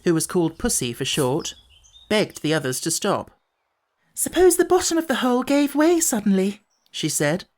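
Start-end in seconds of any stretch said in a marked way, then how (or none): 4.1-6.6 put-on much higher, worried little girl; a small girl fretting about falling through; high anxious child voice; little girl's voice. A narrator's reading.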